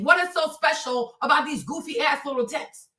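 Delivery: light take on a Trump rally voice, barely changed from her own; a hint of Trump as he mocks something; Trump impression. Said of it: "let me do my little Trump thing".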